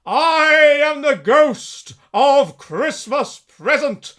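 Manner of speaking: slow, loud, booming proclamation; jolly giant voice. Acted. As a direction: announce yourself like a grand spirit. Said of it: "said the spirit".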